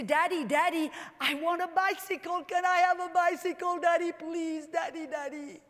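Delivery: lightly voiced small child begging daddy; a hint of a child nagging for a bicycle; pleading little kid. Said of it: "that goes to daddy and say".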